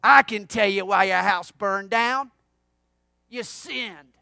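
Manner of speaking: loud accusation, dropping on the verdict; mock snapping. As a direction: snap it like a bossy cartoon kid. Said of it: "she sort of snaps at him".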